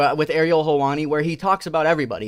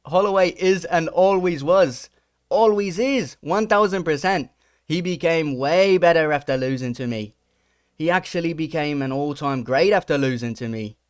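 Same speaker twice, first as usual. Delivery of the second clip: put-on British accent. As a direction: keep the mock British accent going. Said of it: "a British accent".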